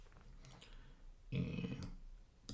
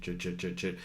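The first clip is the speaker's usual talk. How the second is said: chopping sound; 5 dB quieter than usual. Shown as a demonstration. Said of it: "I kinda have to show you".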